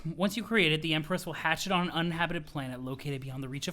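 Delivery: a hint of a solemn mentor; pompous Jade. Jade explaining the Matriorb to Roxy, lightly pompous. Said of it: "pompous voice".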